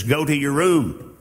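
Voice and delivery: firm, curt parental command; stern parent. Pretend. Preacher voicing a parent ordering a disobedient child, firm. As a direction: send the child off, no room to argue. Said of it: "and the parent says".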